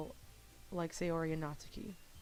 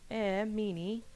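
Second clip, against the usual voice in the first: whiny pout; 4 semitones higher, 5 dB louder, much slower than usual. Acted. Sayori pouts at refusal.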